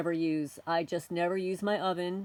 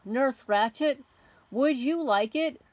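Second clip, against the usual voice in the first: sarcastic taunt; 4 semitones higher, 4 dB louder than usual. Real, not acted.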